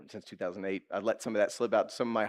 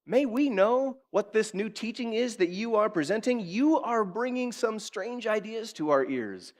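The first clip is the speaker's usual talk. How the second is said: inquiring Athenians; 8 semitones higher, slower than usual. Acted. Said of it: "where they said to him".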